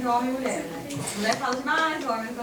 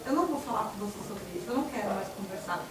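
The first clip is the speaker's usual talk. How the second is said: calm refusal; 4 semitones lower, 5 dB quieter than usual. Retold or imitated. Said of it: "eu viro pra ele e falo assim".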